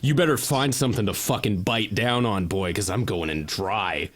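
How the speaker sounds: mock tough guy. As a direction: taunt him like a movie badass. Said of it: "And we're like".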